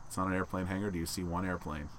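hushed stage whisper, stress on not. Pretend. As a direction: whisper it back, hitting not. Whispered rebuttal.

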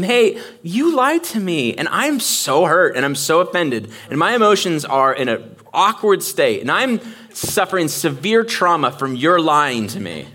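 milk her fake trauma; mock wounded Delilah. Voicing Delilah complaining to Samson.

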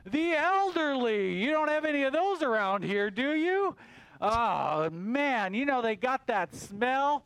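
a mildly put-on complaining bug; ranting moth. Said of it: "And he's like".

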